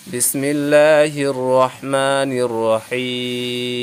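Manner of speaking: slow, drawn-out Quranic recitation. Shown as a demonstration. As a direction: recite it slowly and melodically. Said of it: "teacher recites before surah".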